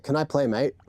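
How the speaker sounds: lightly put-on Aussie-British accent; casual mock UK accent, slipping into Australian; UK accent gone Australian. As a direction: toss it off with a hint of Australian. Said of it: "my U K accent is Australian today".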